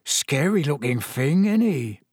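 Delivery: lightly voiced chatty Cockney lad; casual, lilting character voice; Stan, chatty lad. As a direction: gossip about a wanted man.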